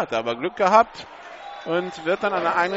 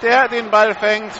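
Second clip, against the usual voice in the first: touchdown call; 3 semitones higher, 4 dB louder than usual. Real, not acted. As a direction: belt out the touchdown pass. Touchdown pass called live.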